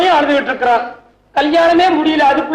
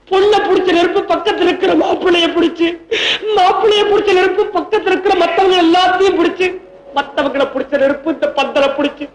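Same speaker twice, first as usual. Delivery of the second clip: mock weeping. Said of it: "நான் அழுவாமையா விடுறது".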